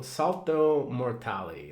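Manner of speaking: self-mocking Italian accent, drawn out slowly; a podcaster hamming up his shaky Italian accent; poor Italian accent. Shown as a demonstration. A podcaster tries out an Italian term in a mock Italian accent. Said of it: "that's my very poor Italian accent".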